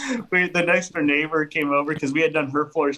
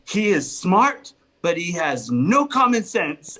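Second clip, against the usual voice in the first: slow, deliberate verdict in an imitated Spanish accent; slow, lightly Spanish-accented pronouncement; 3 semitones higher, slower than usual. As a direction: imitate a Spanish-accented wife, spacing out each word. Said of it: "like, a Spanish accent".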